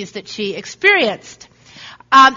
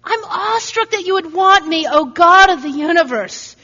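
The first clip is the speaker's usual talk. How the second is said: awestruck; 5 semitones higher than usual. Pretend. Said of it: "our attitude should be".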